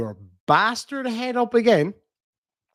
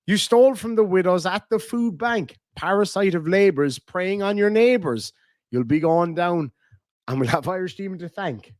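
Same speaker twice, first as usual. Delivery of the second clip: lilting comic verse, landing on the rhymes; limerick recital; 3 semitones higher than usual. Shown as a demonstration. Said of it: "a limerick for you".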